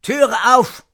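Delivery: hoher Ruf mit französischem Akzent; französischer Akzent. A narrator's reading. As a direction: call out high with a French accent. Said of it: "mit französischem Akzent". (französischer Akzent, gerufen)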